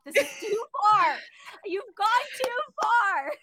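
exasperated talking-to, played for laughs; mock self-scolding. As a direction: tell yourself off, building to a drawn-out finish. Scolding herself in the retelling.

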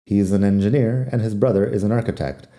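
words run together, "an" reduced; said fast. Shown as a demonstration. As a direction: rattle it off at natural speed. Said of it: "Si lo digo rápido".

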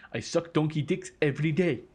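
playful South African impression, laughing; South African accent. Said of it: "That's my South African fella".

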